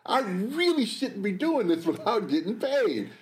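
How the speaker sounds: slow, firm restatement; slow deliberate repeat. Retold or imitated. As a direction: spell it out slowly. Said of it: "I'm sitting there thinking".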